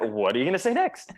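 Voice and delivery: "next" lifted in a curious rise; upward inflection. Acted. Echoing the curious listener, "next" rising. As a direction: ask it leaning into a rising "next". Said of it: "So an upward inflection".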